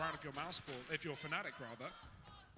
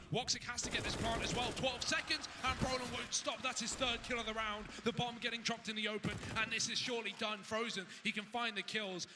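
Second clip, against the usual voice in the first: excited; 5 semitones higher than usual. Real, not acted. Rising climax of a tense round.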